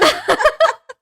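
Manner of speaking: a burst of high, loud laughter. Real, not acted. Laughing at her own dark joke to a friend, big high laugh.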